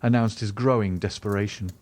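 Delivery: usual speaking voice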